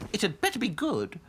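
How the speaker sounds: high, imperious doll voice; demanding princess doll. A narrator's reading. Princess dolls warning their servant, demanding. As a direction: make it a high-pitched warning.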